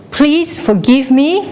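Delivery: high, slow call, rising at the end. Acted. Someone on a cliff asking forgiveness, high call. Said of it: "if you say".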